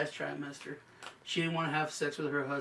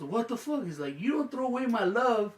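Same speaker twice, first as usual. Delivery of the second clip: higher-pitched mock outrage; retold indignation; 6 semitones higher than usual. Husband to wife over the thrown-out pillow, mock indignant. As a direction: imitate a husband's raised-pitch protest.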